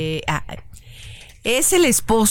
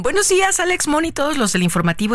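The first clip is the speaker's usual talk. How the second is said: bright sing-song greeting; 11 semitones higher, faster than usual. Acted. Reading listener message cheerfully.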